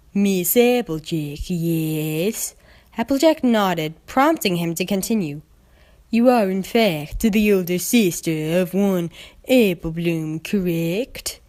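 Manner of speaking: slow, formal agent voice; formal stallion. Acted. Agent formally addressing Applejack, lightly voiced. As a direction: state it like an official.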